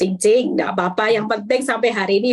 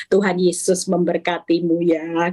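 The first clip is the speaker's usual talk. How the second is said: gentle blessing. Shown as a demonstration. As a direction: say it kindly and evenly. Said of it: "ngomongnya pasti lemah lembut". (berkat lemah lembut)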